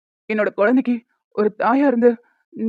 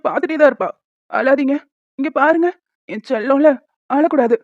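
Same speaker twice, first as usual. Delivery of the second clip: tearful soothing. Acted. Father comforting his crying baby about mother, tearfully. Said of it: "நீங்க அழுதுட்டே பேசுறீங்க".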